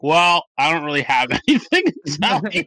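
retold sheepish reply, laughing through it; embarrassed knight. Host voicing knight answering the king, sheepish with a laugh. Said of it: "And he's like".

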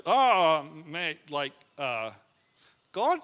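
halting, low and trailing off; nervous stalling. Retold or imitated. Don answering the intimidating biker, nervously hesitant. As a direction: stammer out a reluctant, uncertain answer.

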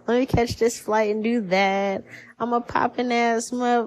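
breezy mock carefree strut, sung start. Imitating a listener breezing through life without a care. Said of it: "Not a care in the world".

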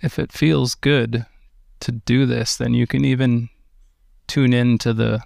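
calm, unhurried meditation guidance; guided meditation. Acted. Teacher guiding listeners through meditation, in a calm guiding voice. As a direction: ease listeners into stillness with gentle pacing.

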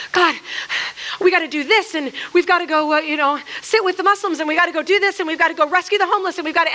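fast, pressing list; anxious eagerness. Retold or imitated. A believer to God, fast and pressing. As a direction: rattle them off like a to-do list.

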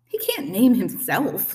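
indignant goose, drawn out; squawking goose. A narrator's reading. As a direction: squawk it out, stretching the words. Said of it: "squawked Loudwing".

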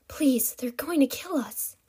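slow, eerie whispered plea; haunting voice. A narrator's reading. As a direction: whisper a desperate warning. Telepathic desperate plea.

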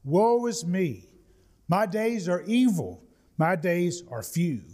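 slow, mock mournful "woe is me"; self-pitying lament. Preacher mimicking Jacob's self-pity, slow and mildly mournful. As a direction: lightly play the self-pitying complainer. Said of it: "he had a habit of self-pity".

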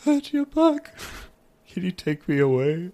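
high-pitched put-on voice, dropping after a laugh; Michael. Film character welcoming Bert back, high mock delight. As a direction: play a delighted character greeting a friend. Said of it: "Michael would have just been like".

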